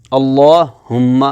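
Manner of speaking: اللہم slow, with a light plain h; simple unstressed h. Shown as a demonstration. Teacher reads اللہم as example, simple light h. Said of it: "ہم نہیں پڑھ سکتے".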